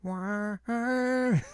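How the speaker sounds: sudden incredulous squeak; real disbelief. Real, not acted.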